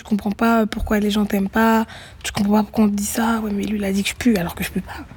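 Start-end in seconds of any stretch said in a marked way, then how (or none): 3.4-5.0 put-on breathy whisper of a hurt child's memory; whispered quote. Girl recalling classmates' taunt, in a whisper. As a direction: hush it like a remembered taunt. Child voiced, mocking schoolmates.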